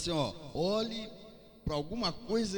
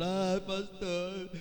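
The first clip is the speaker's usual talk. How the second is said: imitating a whiny complainer, a bit higher; mock-plead like a sulking member; mock whining churchgoer; 4 semitones higher than usual. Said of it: "você não vai ficar chorando pro pastor".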